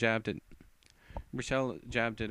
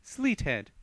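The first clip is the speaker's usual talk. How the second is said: spell incantation; 3 semitones higher, 5 dB louder, much slower than usual. Acted. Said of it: "she said as she stood in position for a magical attack".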